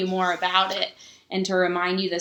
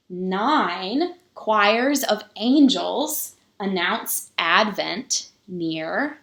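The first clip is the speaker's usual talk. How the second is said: slow, measured picture-book reading with pauses; story reading; much slower than usual. A narrator's reading. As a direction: read it to the children slowly, lingering on each number. Reads the picture book aloud.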